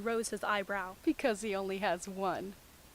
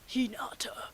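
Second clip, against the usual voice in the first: whisper. Acted. Voiced quote from bad fic.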